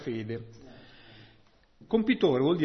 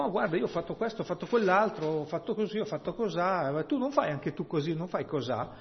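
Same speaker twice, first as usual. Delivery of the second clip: higher, bragging mock voice of a show-off; preacher imitating townsfolk bragging, higher and chirpy; boasting neighbour; 4 semitones higher than usual. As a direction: play the show-off neighbour pushing you to join. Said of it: "E dicono".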